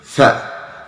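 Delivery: breathy unvoiced tha, air let out; Arabic letter sound. Shown as a demonstration. Teacher demonstrating the letter with air flowing out. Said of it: "when you say".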